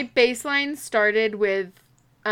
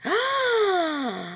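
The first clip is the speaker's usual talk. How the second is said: delighted gasp; 8 semitones higher, 3 dB quieter than usual. Real, not acted. Sees the chicken picture.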